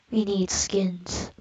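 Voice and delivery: slow breathy whispered creep; creepy whisper. Pretend. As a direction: hiss it slowly like a lurking creep. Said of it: "that's my creepy voice".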